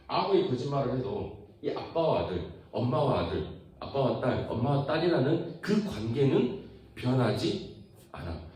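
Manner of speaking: ordinary delivery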